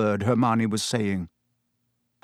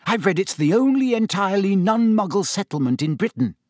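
eager, higher know-it-all keenness; keen; 7 semitones higher than usual. Acted. Hermione keenly quizzing Ron about Hogsmeade, eager and higher. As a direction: share the fact keenly, pitch up. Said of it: "asked Hermione keenly".

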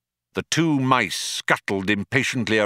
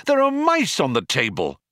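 mildly alarmed, high-pitched exclamation; yelping alarm; 7 semitones higher than usual. A narrator's reading. Arthur spots mice on the table, mild yelp. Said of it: "suddenly yelped".

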